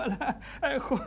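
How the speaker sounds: emotional, laughing. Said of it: "δια την συγκίνησή μου".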